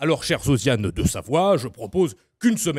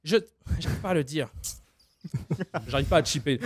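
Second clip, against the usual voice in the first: a raised, halting Taubira; Taubira impression; 7 semitones higher than usual. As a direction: speak high and hesitant, struggling to say it. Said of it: "Christiane Taubira".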